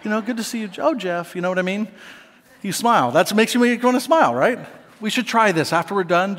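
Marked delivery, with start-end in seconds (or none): 0.0-1.3 mock formal greeting. Shown as a demonstration. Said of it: "I wish we talked to each other like that".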